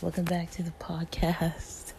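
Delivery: hoarse, breaking whisper of a voice; voice cracking. Real, not acted. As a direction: voice keeps cutting out. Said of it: "my voice is, like, cracking".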